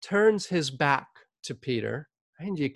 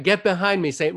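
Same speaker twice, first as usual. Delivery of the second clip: loud rebuke; 3 semitones higher, 3 dB louder, faster than usual. Retold or imitated. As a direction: firmly order him back, imitating a public rebuke. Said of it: "says loudly".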